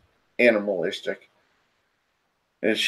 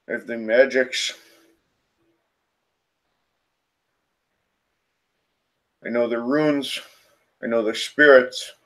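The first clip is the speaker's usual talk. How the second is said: deep throaty spirit. Acted. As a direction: announce yourself like an ancient, animalistic spirit. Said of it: "in this deep, throaty voice".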